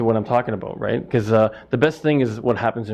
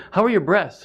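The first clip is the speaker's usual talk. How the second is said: much higher, lightly voiced woman customer asking; lady customer; 8 semitones higher than usual. Woman customer asks the butcher about chicken, higher mock voice. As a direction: play an innocent shopper at the counter.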